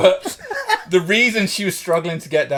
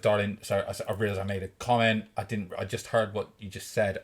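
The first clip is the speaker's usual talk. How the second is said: low, softened retold apology; discreet, hushed sorry; quiet apology; 4 semitones lower, 7 dB quieter than usual. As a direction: keep it down, apologize without drawing attention. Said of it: "I'm trying to do it quietly".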